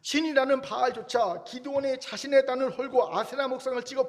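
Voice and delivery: father Joash's defiance. Retold or imitated. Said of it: "풀어드리면 이렇습니다".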